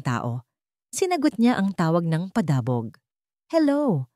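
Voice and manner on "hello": hard, disrespectful. A narrator's reading. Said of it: "matigas at walang galang".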